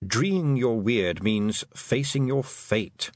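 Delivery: slow, measured toad voice; deliberate toad gloss; toad explainer. Acted. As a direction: explain it at half speed. Toad explains the phrase slowly.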